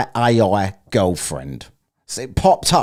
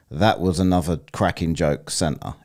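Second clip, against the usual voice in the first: deadpan; 4 semitones lower, 3 dB quieter than usual. Retold or imitated. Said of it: "in a deadpan voice".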